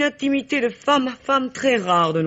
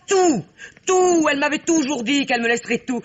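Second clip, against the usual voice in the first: hammed-up tears; 4 semitones higher than usual. Greedy friend sobs theatrically to the attorney general over her inheritance. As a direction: fake a sob while listing what she is owed.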